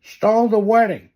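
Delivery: breathless, high frantic babble. Acted. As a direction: blurt it out in a panic. Frantic news about prince's wedding.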